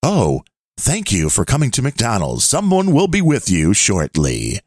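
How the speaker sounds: recorded drive-thru greeting; automated voice. Pretend. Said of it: "this will be the automated voice".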